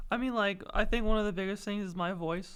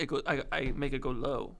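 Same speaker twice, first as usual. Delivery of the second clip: lowered voice; 5 semitones lower than usual. Shown as a demonstration. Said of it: "like this".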